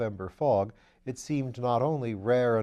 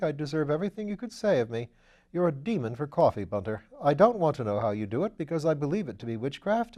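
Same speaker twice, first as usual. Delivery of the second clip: put-on an airy young lord teasing his valet; bright upper-class gentleman, raised pitch; Lord Peter; 3 semitones higher, 4 dB louder than usual.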